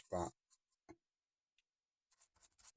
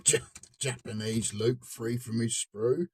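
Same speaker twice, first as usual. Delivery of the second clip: laughing; 2 semitones higher, 4 dB louder than usual. Real, not acted. Laughing at the pilot figure.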